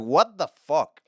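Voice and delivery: high, loud baffled outburst; mock disbelief. Kid hearing about nineteen ninety-seven, mock disbelief.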